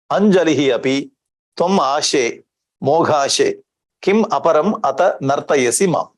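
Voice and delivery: measured recitation of a shloka; teacher reciting a verse in class; Sanskrit verse recitation. Acted. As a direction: recite the verse steadily, line by line.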